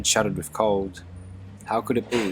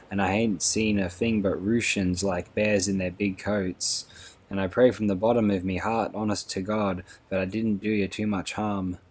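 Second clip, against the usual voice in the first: lightly voiced remorseful old trooper, rustic speech; broken old soldier. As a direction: apologise humbly like a shaken old soldier. Mr Bow voiced in the story.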